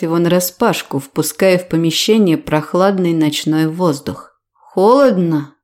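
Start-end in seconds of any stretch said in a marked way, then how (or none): 4.5-5.5 slow capricious whine; whiny. Acted. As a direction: sulk like a spoiled child. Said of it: "капризничаю я".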